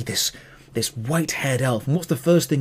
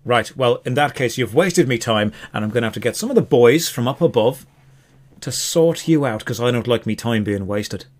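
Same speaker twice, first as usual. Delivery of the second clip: Irish elf; 2 semitones lower than usual. Acted. Elf threatens the buyer who wasted his time, Irish accent. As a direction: warn them off in an Irish accent. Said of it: "the elf is Irish".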